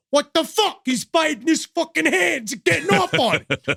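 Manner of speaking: high retold yell; screaming. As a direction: yell it like Joe Pesci. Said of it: "started screaming at the top of his lungs".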